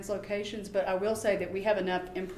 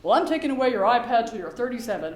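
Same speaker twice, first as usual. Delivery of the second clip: mock parent ultimatum; 6 dB louder than usual. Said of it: "parents who say such stupid things".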